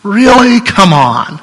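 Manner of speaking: mock exasperated teacher. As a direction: let the exasperation spike on really. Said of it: "an expression from exasperation".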